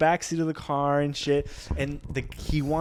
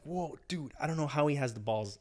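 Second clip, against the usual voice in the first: awed murmur; 8 dB quieter than usual. Retold or imitated. Awed aside to himself.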